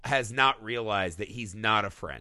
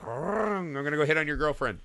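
put-on Italian accent; 3 semitones higher than usual. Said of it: "The cat gets on his Vespa".

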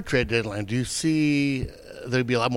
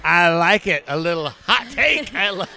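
laughing, higher and slow on the second line; amused laugh; 4 semitones higher than usual. Real, not acted. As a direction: chuckle through the reaction. Host reacts to bold claim.

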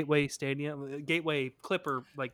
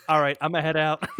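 SpongeBob meme; 10 dB louder, faster than usual. Retold or imitated. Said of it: "Insert SpongeBob meme".

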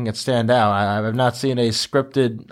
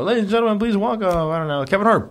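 high talk-show guest introduction; announcer voice; 6 semitones higher, faster than usual. Pretend.

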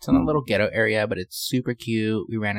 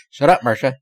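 mock bossy shout; 3 semitones higher, 6 dB louder than usual. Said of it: "t-shirt that says".

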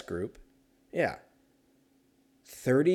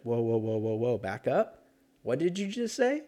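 hammed-up shocked reaction; mock double take. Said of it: "And you're like".

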